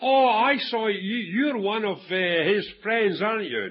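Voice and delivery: a hint of a girl's accusing voice; little girl. Preacher voices a little girl catching Peter out, lightly mimicked. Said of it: "A little girl came along and said".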